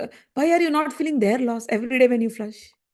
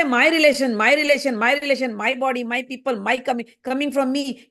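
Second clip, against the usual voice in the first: mock lament. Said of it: "You say".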